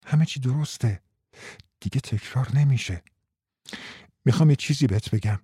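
soft, soothing reassurance; calm him down gently; very softly. Acted. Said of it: "خیلی نرم گفت". (خیلی نرم و آرام)

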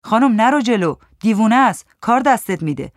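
loud warning, easing at the end; shouted warning. Acted. Man in the queue shouting a warning at the woman. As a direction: call out to hold her back. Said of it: "یکی از مردها داد زد".

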